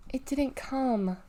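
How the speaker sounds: sad. Acted. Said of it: "rasp was so filled with sadness".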